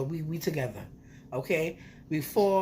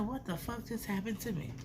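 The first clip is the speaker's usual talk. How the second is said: stunned hush; 3 semitones higher, 10 dB quieter than usual. Retold or imitated. Stunned after the strip.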